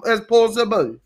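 practicing a put-on patois; singsong amateur Jamaican accent; fake Jamaican patois. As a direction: lay on an island accent. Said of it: "sound as patois as, as possible".

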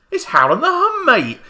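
high, loud excited call; shouting out. Retold or imitated. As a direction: yell the band name at him. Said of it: "I'm like".

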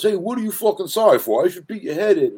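high, loud mock outrage; hammed-up belligerent threat; angry New Yorker. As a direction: play an aggressive guy picking a fight. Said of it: "guy gets out and goes".

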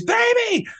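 a high retold scream of Baby; wife shrieking Baby at the truck. Wife sees truck coming, high panicked scream. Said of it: "she screams".

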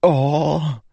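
high, ringing sword voice; a bright blade speaking. Acted. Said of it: "the sword said from his back".

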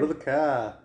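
"car" with a long open A, no R; dragged-out A's. Shown as a demonstration. Showing off their home accent, long A in "car". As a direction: drag out the A in "car". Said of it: "we drag out our A's".

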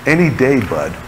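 mutedly sarcastic jab, falling away at the end. Acted. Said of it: "you finally sarcastically say".

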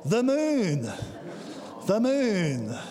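the same words with the wonder taken out; preacher mocking how an adult would say it; adult talk version. Shown as a demonstration. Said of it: "adult talk".

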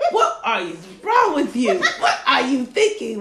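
loud, laughing mock scold; a hint of a stern father; dad's scolding again. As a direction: replay the father's rebuke. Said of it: "Was right there in my ear".

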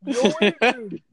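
Rocky-style yell of Yo Adrian; Rocky impression. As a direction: call out like Rocky. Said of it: "movie catchphrase".

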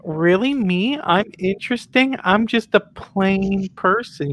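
can't believe he means you; flattered disbelief. Acted. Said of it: "And then you go".

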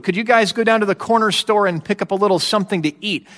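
breezy, fast casual ask; offhand request. Retold or imitated. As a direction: toss it off like a small errand. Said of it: "That's how it, it sounds".

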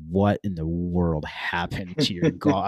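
slow, drawn-out disbelief; incredulous, stretching out each word; retold astonishment. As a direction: imitate a stunned store clerk. Store clerk sees broken club.

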